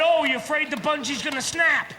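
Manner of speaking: friends' light, doubting question; teasing question. Retold or imitated. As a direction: ask it as a mild taunt. Friends' teasing question, then his answer.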